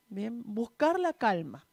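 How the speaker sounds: "buscar la calma" said slowly and calmly again; slow calm repeat. Shown as a demonstration. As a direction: ease into it slowly, as if finding calm. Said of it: "tengo que buscar la calma".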